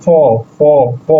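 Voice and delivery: ফ sounded out alone, repeated with pauses; letter pronunciation demo. Shown as a demonstration. Teacher showing learners the Russian F sound, demonstrating ফ. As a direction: say ফ as an isolated syllable, three times. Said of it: "এফ এর উচ্চারণ হবে".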